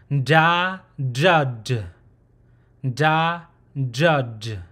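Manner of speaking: "nda, dud" as separate, careful model syllables; nasal-onset consonant. Shown as a demonstration. Teacher recapping this consonant, demonstrated pronunciation. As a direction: open "nda", then closed "dud". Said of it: "that's how you pronounce this consonant".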